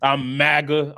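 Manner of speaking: low, proud mock drawl on maga; a sneering imitation of a rock singer. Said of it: "the way he said it".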